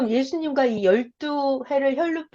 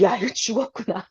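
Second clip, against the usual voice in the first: startled woman panicking. Acted. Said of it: "깜짝 놀란 거예요".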